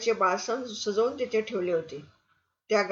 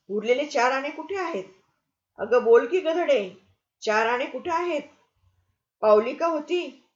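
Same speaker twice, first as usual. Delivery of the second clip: put-on shrill angry scolding of a child; 2 semitones higher, 3 dB louder than usual. Landlady scolds orphan Lili over lost coins, angrily.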